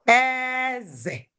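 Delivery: "Eze" with a drawn-out high E, then a drop; high-tone "king" pronunciation. Shown as a demonstration. Teacher showing the word for king, "Eze" high then falling. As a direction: hold "Eze" high and let "ze" fall. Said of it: "it has different sounds and different meaning".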